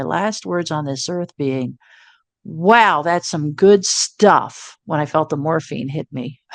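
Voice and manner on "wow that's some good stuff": drawn-out wow. Retold or imitated. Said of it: "one minute I'm like".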